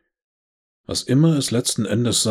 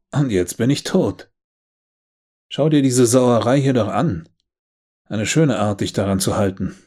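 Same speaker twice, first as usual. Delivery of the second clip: indignant outburst; 3 semitones higher, 4 dB louder than usual. Acted. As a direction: let the anger boil over at him. Elizabeth furious at being dead.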